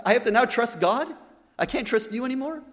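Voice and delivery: mock-despairing grandma, incredulous questions; exasperated despair. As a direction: act out a dismayed grandma who can't believe it. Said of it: "she was in despair".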